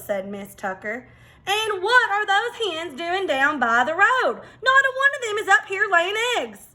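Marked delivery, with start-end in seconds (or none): 1.5-6.7 higher, laughing farm wife; amused farm wife. Acted. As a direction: chuckle at the silly hens. Miss Tucker amused, puzzled.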